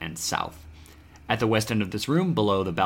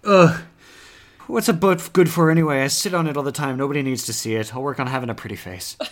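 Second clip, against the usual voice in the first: exasperated outburst, high and loud, easing off; grumbling Steven; 6 semitones higher, 7 dB louder, faster than usual. Acted. Steven grumbling back to the player about butts, high exasperated voice. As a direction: start on a loud high groan, then settle as you grumble. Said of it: "And you see Steven, um, he's like".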